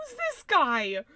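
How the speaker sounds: normal talking voice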